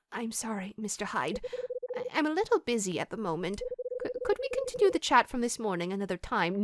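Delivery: soft, halting excuse; hesitant, apologetic Mags. Acted. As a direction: softly try to put him off. Voices Mags brushing Hyde off.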